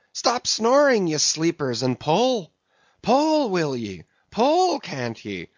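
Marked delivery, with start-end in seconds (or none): 4.3-4.8 very high, urgent yelp of command; exasperated cry. A narrator's reading. Officer goads his sleepy rowers, crying out. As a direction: urge the stroke with a high cry.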